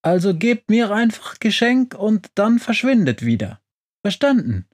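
high-pitched, dismissive witch voice; unfriendly witch. A narrator's reading. Witch telling the adventurers to vanish, curt and unfriendly. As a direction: order them away in a high voice. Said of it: "unterbricht sie unfreundlich".

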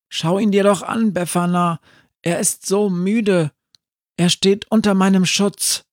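put-on high child voice, pleading; a small boy begging for his friend. Jakob pleads with Befana to protect the zombie, high child voice.

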